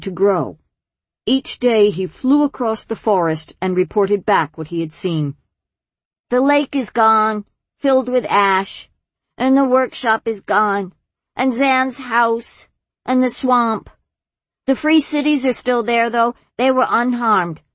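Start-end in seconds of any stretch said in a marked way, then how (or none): 6.3-17.6 higher-voiced, earnest young dragon; young dragon reporting. A narrator's reading. Dragon reporting back what he had seen, high-voiced.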